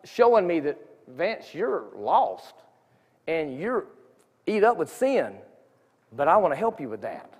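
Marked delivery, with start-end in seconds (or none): 1.1-7.3 gentle voice of God. Retold or imitated. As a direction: say it gently, like God calling a lost man. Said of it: "I just felt God showing me".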